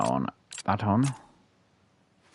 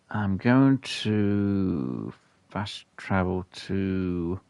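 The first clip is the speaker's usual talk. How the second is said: holding back a sneeze; much slower than usual. Real, not acted. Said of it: "So I'm trying not to sneeze at the minute".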